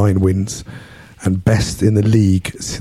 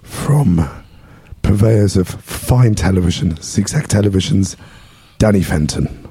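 lost voice, hoarse and rough; hoarse, worn-out speaking. Real, not acted. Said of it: "Nice voice, Mike".

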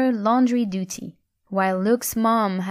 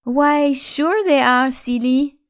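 put-on higher, louder playful French girl; giggly; 6 semitones higher, 5 dB louder than usual. A narrator's reading. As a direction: tease him with a hint of giggle. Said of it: "giggled Hélène".

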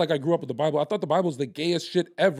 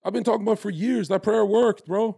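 fired-up insistence; 6 semitones higher, 5 dB louder than usual. Real, not acted. Insists again.

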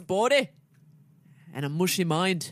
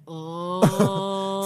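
full-belly groan. Retold or imitated. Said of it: "making a noise".

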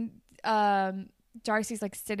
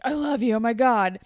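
put-on lightly gushing boy, a bit louder; mock teenage boy; 6 dB louder than usual. Recapping teenage boy being kissed, mock gushing. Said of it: "'Cause he's a teenage boy".

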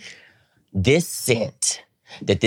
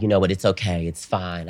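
mock reassurance. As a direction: gently let someone off the hook. Retold man comforts the teller.

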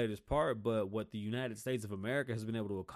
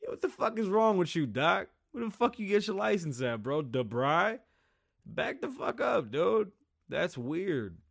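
high-pitched, raised-voice challenge; mock outraged telling-off; acted indignation; 6 semitones higher, 5 dB louder than usual. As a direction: confront the doctor in disbelief.

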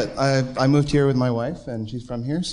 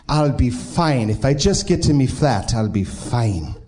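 very slow, drunken bad Irish accent; slower than usual. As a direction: drag it out in a hammy Irish brogue. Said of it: "I have to do it with an Irish, uh, bad Irish accent".

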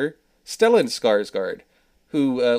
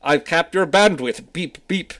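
creepy clown voice; 5 semitones higher, 5 dB louder, slower than usual. Pretend. Pennywise joked as IT worker.

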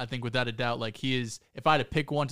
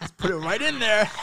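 laughing while teasing; cracking up mid-line; 6 semitones higher, 5 dB louder than usual. Real, not acted. Laughing tease over innuendo.

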